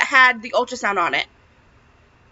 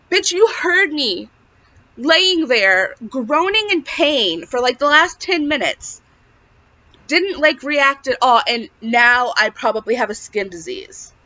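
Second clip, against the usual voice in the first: retold angry comeback; 2 semitones higher, slower than usual. To the ultrasound tech who ignored her pain, slow indignant outburst. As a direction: lay into her slowly, pitch raised in outrage. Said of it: "I was so mad".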